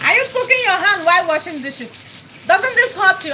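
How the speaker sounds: high mock disbelief from the husband; imitating shocked husband. Husband asking about hot water, high mock alarm. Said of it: "It goes like".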